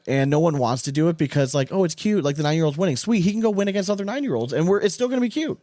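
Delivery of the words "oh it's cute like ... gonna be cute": higher, mock-indulgent voice; mocking quote. Podcaster mocking the crowd that coddles nine-year-olds, higher mocking voice. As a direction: play the people who find it cute, teasing.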